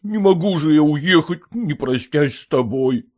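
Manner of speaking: mild, pleading tearful voice; a touch of weeping, begging forgiveness. Acted. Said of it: "сказал он плачущим голосом".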